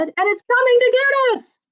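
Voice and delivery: high, teasing creepy voice; spooky monster voice. Acted. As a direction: scare your little sister playfully. George teases sister, squid monster.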